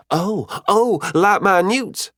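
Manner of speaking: high, eager burst; excited interjection. A narrator's reading. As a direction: jump in like a keen pupil. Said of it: "Valterra interjected excitedly".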